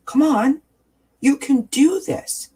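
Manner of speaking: high, loud, drawn-out encouragement; rallying cheer. Shown as a demonstration. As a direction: urge yourself on with pitch soaring. Rallying herself in mirror demo.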